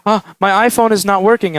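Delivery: mildly frantic imitation of a customer. Frantic customer reporting a broken iPhone, mock fluster. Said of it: "she's really frantic".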